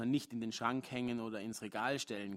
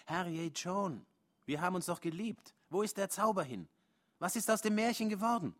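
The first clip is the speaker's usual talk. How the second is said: high, rising plea to his partner; pleading protest; 7 semitones higher, 4 dB louder than usual. Acted. Man pleads with angry partner Joan, high and pleading. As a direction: beg her to remember the love. Narrator voices pleading argument.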